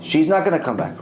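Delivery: firm refusal in the speaker's own pitch; other judge insisting. Retold or imitated. The other judge arguing against Rav Ovadia, firm. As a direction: insist she stays dead. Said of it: "He's arguing with him".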